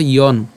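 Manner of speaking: "ইয়ন" ending on a distinct dental n; separated dental n. Shown as a demonstration. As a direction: say "ইয়ন" with the final n set apart. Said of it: "দন্তানুটাকে আলাদা করে উচ্চারণ করেছি". ("ইয়ন", শেষের দন্ত্য ন আলাদা করে)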